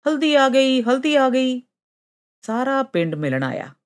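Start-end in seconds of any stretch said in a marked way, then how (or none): 0.1-1.6 high-pitched cry of arrival; excited clamour. A narrator's reading. Villagers hail Haldi's return, excited clamour. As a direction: spread the news in an excited, raised voice. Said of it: "ਰੌਲਾ ਪੈ ਗਿਆ".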